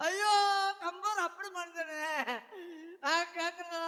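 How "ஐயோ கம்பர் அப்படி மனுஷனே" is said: mock crying. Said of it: "அழுதுகிட்டு இருக்க".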